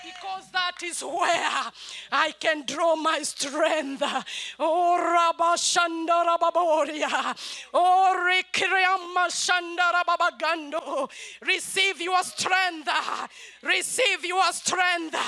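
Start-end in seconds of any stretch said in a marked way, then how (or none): 4.6-11.1 fervent loud tongues prayer; rhythmic ecstatic prayer in tongues; speaking in tongues. Real, not acted. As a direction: pour out the tongues with conviction. Speaking in tongues mid-sermon.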